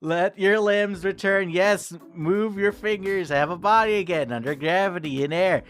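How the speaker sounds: calm meditation-style voice; guided waking. A narrator's reading. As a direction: coax the sleeper gently back into a body. Guides the player to wake.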